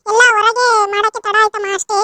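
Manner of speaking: a catch of crying in the voice; tearful apology. Acted. Scolded daughter pleading with stepmother, close to tears. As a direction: apologize while holding back tears.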